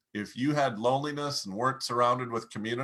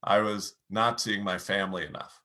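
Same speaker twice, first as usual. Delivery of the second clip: low and heavy; 5 semitones lower than usual. Shown as a demonstration. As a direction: sink your voice as you admit it. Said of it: "Lower your pace, lower your volume, lower your tone".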